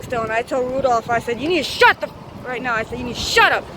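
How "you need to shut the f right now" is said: cut-off curse, lightly sharp; angry retort. Retold or imitated. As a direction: start to swear, then bite off the f-. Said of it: "that's exactly how I said it".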